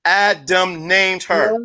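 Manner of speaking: slow, rising on named; teacher spelling out the answer slowly. Shown as a demonstration. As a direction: draw it out like a quiz answer. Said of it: "What did he do?".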